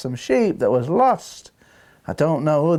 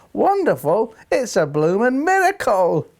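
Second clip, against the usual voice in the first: raised, questioning echo, then emphatic; incredulous thought; 5 semitones higher than usual. Retold or imitated. A baffled listener thinks to himself about the older women, incredulous. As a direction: query it in comic disbelief. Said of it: "I thought to myself".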